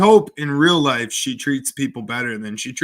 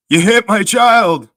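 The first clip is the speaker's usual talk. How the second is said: loud, higher-pitched frantic accusation; frantic yell; 6 semitones higher, 7 dB louder than usual. Acted. Frantic homeless man accosts a driver in traffic, frantic yell.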